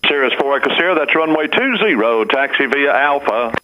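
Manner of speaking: controller over the radio; tinny radio transmission. Real, not acted.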